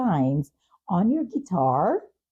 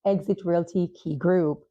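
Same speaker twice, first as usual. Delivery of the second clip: upbeat ad read, brisk and bright; podcast outro ad read; sponsor read; 4 semitones higher than usual. Acted. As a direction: sell the sponsors like a radio host.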